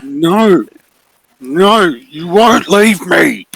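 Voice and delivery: high, loud, drawn-out monster cry; desperate bear refusing to let go; possessive bear. Acted. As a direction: insist slowly and loudly, pitched right up. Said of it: "you just see this bear".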